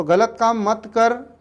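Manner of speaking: each word drawn out slowly; teacher spelling out a mild scolding; slow, deliberate telling off. Shown as a demonstration. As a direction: say it slowly and firmly to a child. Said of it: "ये नकार बोधक हुआ".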